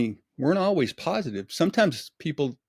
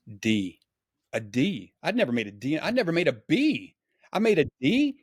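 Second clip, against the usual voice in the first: rising, higher-pitched incredulous recollection; retold disbelief; 3 semitones higher than usual. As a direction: replay being stunned by the grade. Acted shock at a bad grade.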